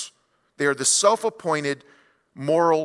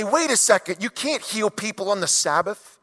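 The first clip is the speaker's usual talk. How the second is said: mock Pharisee objection; 5 semitones higher than usual. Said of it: "they say".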